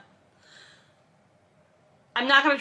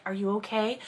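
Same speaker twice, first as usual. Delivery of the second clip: gentle concern; 7 dB quieter, faster than usual. Shown as a demonstration. Checking on Caroline because Kit was brought up, gentle concern. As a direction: ask "Are you okay?" quietly and kindly. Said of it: "if it was meant to be like".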